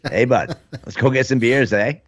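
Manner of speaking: mock Canadian hick, part New England; Canadian accent. Shown as a demonstration. Host trying out hick talk, mixed Canadian accent. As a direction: attempt a Canadian "bud" and "eh" accent. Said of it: "almost New England and Canadian".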